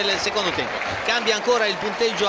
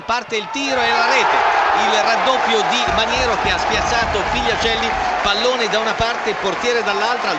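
loud goal call; 4 dB louder than usual. Real, not acted.

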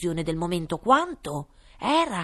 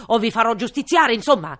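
threatening king; 5 semitones higher, 11 dB louder, faster than usual. A narrator's reading.

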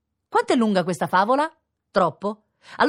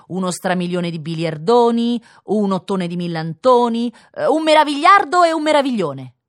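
triumphant boast; 3 semitones higher, 7 dB louder than usual. Acted. Child boasting invented huge number.

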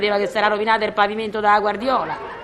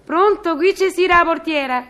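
lightly put-on concierge voice, pitched up; intercom greeting; 5 semitones higher than usual. Concierge picks up the intercom to a tenant, intercom greeting. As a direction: answer the intercom in a higher, official voice.

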